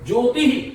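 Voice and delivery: ज्योतिः pronounced "jyotihi"; visarga as hi. Shown as a demonstration. Teacher repeats an exam word, ज्योतिः as "jyotihi". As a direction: echo the i after the breath in ज्योतिः. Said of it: "इस तरह से".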